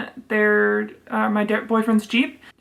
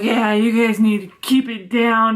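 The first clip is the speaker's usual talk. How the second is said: put-on drunk neighbor; 4 dB louder than usual. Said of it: "she came over drunk".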